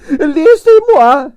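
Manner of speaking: high, slow, imperious Russian lady; grande dame Russian ballerina. A narrator's reading. Narrator voicing Arienskaya, imperious and high. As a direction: sigh it out like a tragic prima donna.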